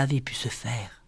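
softly whispered narration; hushed whisper of confusion. A narrator's reading. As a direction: let it fall to a whisper of wonder. Narration of Madeleine's puzzlement.

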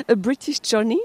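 « British Journey » prononcé à l'anglaise, en riant; accent anglais imité. Retold or imitated. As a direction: imiter l'accent anglais de l'invité avec amusement. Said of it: "j'excuse votre accent". (accent anglais moqueur, en riant)

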